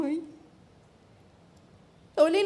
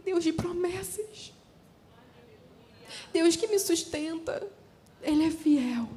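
fervent prayer; 3 semitones higher, slower than usual. Retold or imitated. Tearful prayer after a positive test.

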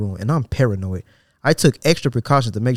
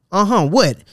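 indignant what; 8 semitones higher, 4 dB louder, slower than usual. Retold or imitated. Indignant retort to clerk.

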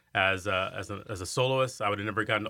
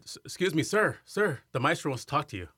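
a lightly voiced woman calling, pitched higher; calling after him; 6 semitones higher than usual. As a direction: mimic the usher calling sir, sir, higher.

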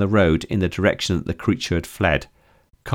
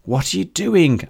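May voice; 10 semitones higher, 3 dB louder than usual. A narrator's reading. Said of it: "asked May".

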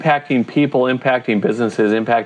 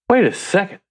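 much higher-pitched, retold surprise; dawning realisation; 9 semitones higher than usual. Man retelling his discovery in Proverbs, dawning surprise. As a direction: let the pitch jump as it clicks.

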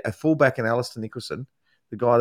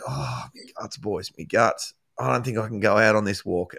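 mock whinging; 3 semitones lower than usual. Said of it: "he was whinging".

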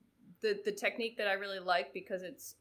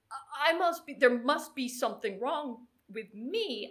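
imitated anxious self-doubt; 4 semitones higher, 6 dB louder than usual. Retold swimmer doubting herself before race.

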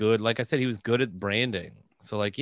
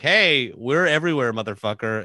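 mock imperial swagger, easing off at the end; bragging; 4 dB louder than usual. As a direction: crow it to the whole world. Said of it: "they were bragging to the world".

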